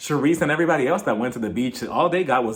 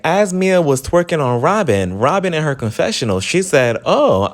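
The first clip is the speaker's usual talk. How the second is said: loud emphatic telling; 7 dB louder than usual. Real, not acted. Loud emphatic wrap-up story.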